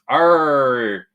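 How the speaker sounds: hearty pirate read. Retold or imitated. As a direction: read it like an old sea pirate. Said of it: "Yolanda says".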